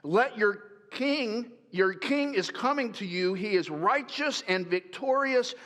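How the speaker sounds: slow, lifted proclamation; solemn scripture read. Acted. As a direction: read the prophecy with reverence. Reads Zechariah prophecy.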